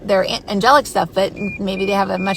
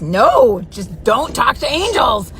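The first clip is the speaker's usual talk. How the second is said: firm inner voice; 3 semitones higher, 4 dB louder, slower than usual. Retold or imitated. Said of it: "something in me that just says".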